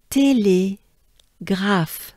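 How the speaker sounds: "Télégraphe" stretched very slowly, closed é; very slow French model. Shown as a demonstration. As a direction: draw out "Télégraphe" for learners. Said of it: "a E like in café".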